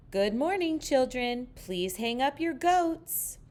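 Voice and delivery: a hint of a sweet teacher; sing-song teacher. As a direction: greet the class like a cheery teacher. Silly teacher greets the class.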